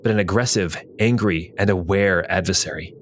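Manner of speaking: measured fantasy recap narration; story narration. A narrator's reading. Game master recaps the cave fight, story narration.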